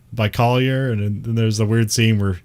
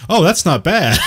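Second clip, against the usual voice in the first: higher, louder mock American accent from a Geordie; a Brit having a go at an American accent; Newcastle doing American accent; 9 semitones higher, 5 dB louder than usual. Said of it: "it's fun when they do American accents".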